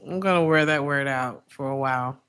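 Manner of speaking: raspy cough-worn voice; rough voice from coughing; smoker's rasp. Real, not acted. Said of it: "I sound like I've been smoking cigarettes".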